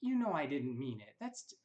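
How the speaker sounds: a lightly voiced mother insisting in court; mimicking mother in court. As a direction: mimic her protesting in court. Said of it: "she's like".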